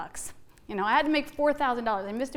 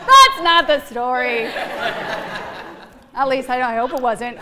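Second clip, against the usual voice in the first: laughing; 2 semitones lower, 6 dB louder than usual. Real, not acted. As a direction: speak through the giggles. Laughing after joke.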